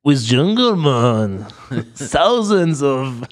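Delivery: laughing through the words; giggling it out, slowed down. Real, not acted. Laughing while naming the host.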